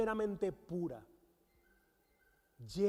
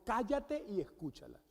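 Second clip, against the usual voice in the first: quieter, firm retold order; forceful command; 5 dB quieter than usual. Husband recounting what God told him, understated forceful command. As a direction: repeat the command firmly but softly. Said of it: "en esa contundencia".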